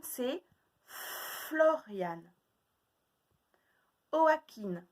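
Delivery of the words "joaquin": "Joaquin" called higher as "oakin"; higher called-out syllable. Shown as a demonstration. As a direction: call out "Joaquin" high as a riddle. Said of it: "de deviner lesquels c'est".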